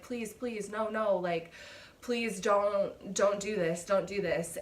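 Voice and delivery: mildly urgent retold pleading; imitating a desperate plea, lightly; retold begging. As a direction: plead in short repeated bursts, acting it out. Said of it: "begging him, pleading him".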